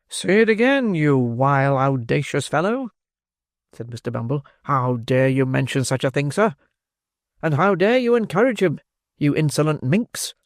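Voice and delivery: pompous beadle scolding; indignant Bumble. Acted. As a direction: bluster at the insolent pair.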